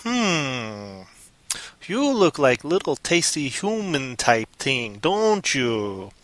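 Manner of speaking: soft, slow hungry purr; cat sizing up a tasty human, slow soft menace; sly predator. Acted. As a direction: savour every word like a cat eyeing prey. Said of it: "And the guy's like".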